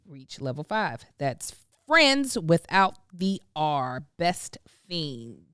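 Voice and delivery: measured sponsor sign-off, slowing at the end; podcast ad read. Acted. Reads a sponsor ad.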